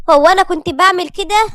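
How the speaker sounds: high, loud question full of wonder; astonished Lilian. A narrator's reading. Wife hears of her forgotten habits, asks astonished. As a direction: ask in amazement, pitch and volume up. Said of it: "كانت ليليان بتسأل وهي متعجبة".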